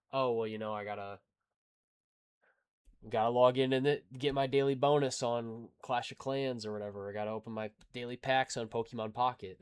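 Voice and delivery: loud, eager gamer excuses, hammed up; mocking himself: I gotta log in; mock excuse-making. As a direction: rattle off your daily gaming chores like they're duties.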